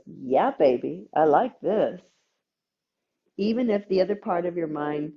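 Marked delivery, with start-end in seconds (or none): 0.1-2.0 put-on lower, contented yeah baby; pleased nervous system. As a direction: savor it like a satisfied lover. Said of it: "Nervous system goes".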